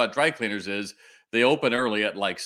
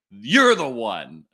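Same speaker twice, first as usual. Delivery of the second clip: woman's voice; 7 dB louder, much slower than usual. Retold or imitated. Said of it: "I hear this woman's voice behind me".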